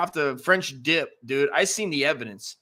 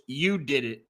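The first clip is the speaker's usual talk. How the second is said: dazed wife accusing. Retold or imitated. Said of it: "came back up and goes".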